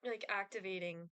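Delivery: talking while gagging. Real, not acted. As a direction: fight back a gag reflex. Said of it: "I'm, like, actively, like, gagging right now".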